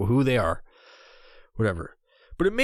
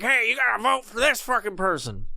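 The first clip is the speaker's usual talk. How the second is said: a lightly higher, failed Thanos try; bad Thanos impression; 6 semitones higher than usual. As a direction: miss the Thanos voice on purpose. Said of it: "That's not how he talks".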